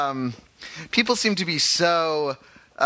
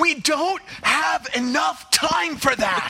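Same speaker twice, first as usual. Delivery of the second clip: movie cop voice; 13 semitones higher, slower than usual. Acted. Host acts movie line.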